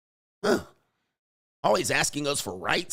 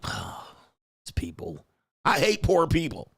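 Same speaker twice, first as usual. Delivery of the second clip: snobby rich guy; 4 semitones higher than usual. Retold or imitated. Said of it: "I'll be talking cash shit like".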